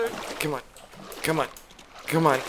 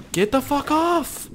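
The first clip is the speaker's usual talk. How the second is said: mock angry yell; 12 semitones higher, slower than usual. Pinned by goat, yelling.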